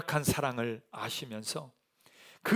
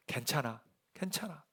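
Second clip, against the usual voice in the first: soft, hushed comfort; gentle reassurance; 8 dB quieter than usual. Acted. The Lord forgiving past mistakes, gently reassuring. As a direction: drop the volume and gently reassure. Jesus reassures the failed disciple.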